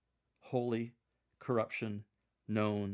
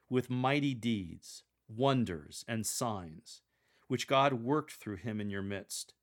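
bold tone. Shown as a demonstration. Lector demonstrating Peter speaking to the Jerusalem crowd, bold. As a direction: direct bold address, slowing on mighty deeds. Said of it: "Continue the bold tone".

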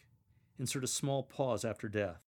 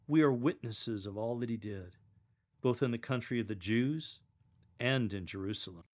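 zealous reading. Shown as a demonstration. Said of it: "Continue your demeanor and tone of voice of zeal and enthusiasm".

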